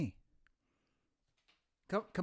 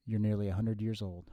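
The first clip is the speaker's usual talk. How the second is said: a hint of a measured old professor, softer; lightly voiced professorial future self; 3 semitones lower, 4 dB quieter than usual. Future self explains to his younger self, lightly professorial. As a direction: speak low and deliberate, like a lecturer.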